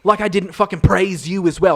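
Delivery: huffy defensive accusation; mock indignation. Guest accuses the host in mock offense.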